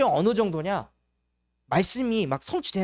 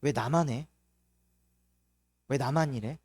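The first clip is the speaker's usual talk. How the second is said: self-pitying grumble; 7 semitones lower, 4 dB quieter than usual. Retold or imitated. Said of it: "상태가 이렇게 됩니다".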